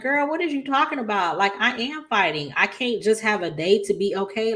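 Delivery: lightly voiced defiant Anita; Anita fighting back. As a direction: push back on a friend who's lecturing you. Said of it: "Anita's just like".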